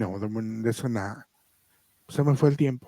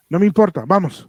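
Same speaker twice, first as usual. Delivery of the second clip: bossy insistence; 4 semitones higher, 7 dB louder than usual. Retold or imitated. Mom brushing him off.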